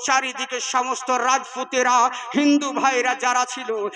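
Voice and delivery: fervent sermon delivery, pushing each line out to the crowd; preaching. Acted. Preacher rousing the faithful at a jalsa, fervent preaching. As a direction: preach it with full fervour.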